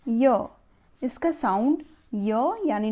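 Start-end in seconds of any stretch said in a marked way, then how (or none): 0.1-0.5 य said slowly and clearly as a plain consonant y; teaching the y sound. Shown as a demonstration. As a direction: model the sound य for children. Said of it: "Y says".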